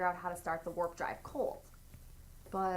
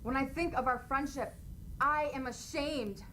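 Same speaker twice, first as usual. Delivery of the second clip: higher, breaking with shame; emotional Spock; 5 semitones higher than usual. Acted. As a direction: let the shame break through. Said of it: "Spock ... makes him emotional".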